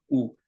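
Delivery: a short "우" with lips pushed into a circle; rounded 우 demo. Shown as a demonstration. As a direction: show the round mouth shape on "우". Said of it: "우리말 입모양 우 해보세요". (입술을 동그랗게 모아 "우")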